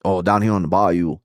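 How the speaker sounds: warming up a Creole bayou accent; albino Creole accent. Shown as a demonstration. Streamer getting into character before reading, put-on Creole accent. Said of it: "I gotta get into it first".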